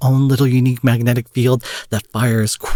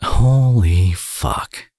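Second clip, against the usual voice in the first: stunned; much slower than usual. Acted. Villain sees real tears.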